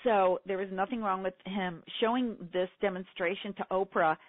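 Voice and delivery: usual speaking voice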